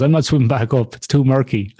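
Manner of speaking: spooked woman. Retold or imitated. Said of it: "One woman goes".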